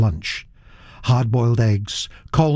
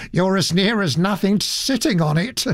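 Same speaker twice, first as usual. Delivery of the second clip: cheerfully; 9 semitones higher than usual. A narrator's reading. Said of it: "replied Mister Judd cheerfully".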